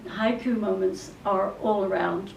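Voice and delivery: ordinary talk, nothing marked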